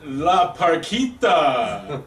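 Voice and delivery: plain; ring announcer. Acted. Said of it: "let me have this one".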